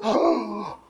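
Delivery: David hearing of the sheep thief, outraged; outraged gasp. Acted. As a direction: explode in shocked outrage. King David outraged at the story.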